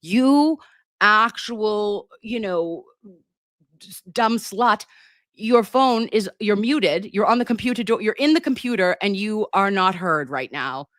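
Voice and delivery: hammed-up exasperated phone scolding; imagined scolding caller. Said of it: "if anyone was calling me and saying".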